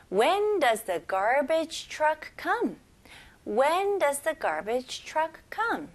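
slow, drilled repetition; slow repeat-after-me. Shown as a demonstration. Teacher leading the class in a slow repeat. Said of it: "이 문장 같이 해볼게요".

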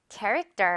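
캐릭터 with the last syllable as unstressed 떨; English character, no air on the T of 캐릭터; natural tensed T. Shown as a demonstration. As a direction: say 캐릭터 with 터 turned into a tight 떠. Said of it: "떠처럼 발음이 되면요, 자연스럽죠".

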